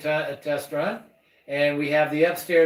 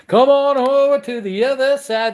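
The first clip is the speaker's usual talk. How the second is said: excited call-out; 10 semitones higher, 5 dB louder than usual. Acted. Host tour call-out.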